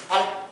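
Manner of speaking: 발 with the final ㄹ cut off quickly; short 발, its ㄹ ending at once. Shown as a demonstration. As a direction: say 발 briefly, stopping quickly on the ㄹ. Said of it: "빨리 끊어라".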